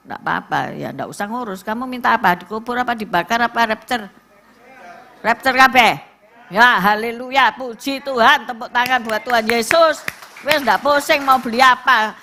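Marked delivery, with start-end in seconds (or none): 5.3-12.1 louder, exultant hallelujah; joyful praise. Acted. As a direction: lift the congregation up.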